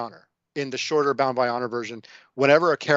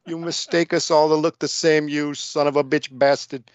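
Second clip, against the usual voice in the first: Italian Evil Corny; 5 semitones higher than usual. Pretend. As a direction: ham up a cartoon Italian gangster. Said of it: "I don't know what accent I'm doing there".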